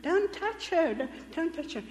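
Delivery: a man shouting to protect her; loud shout. Retold or imitated. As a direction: yell at the crowd to stop. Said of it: "shouted very, very loudly".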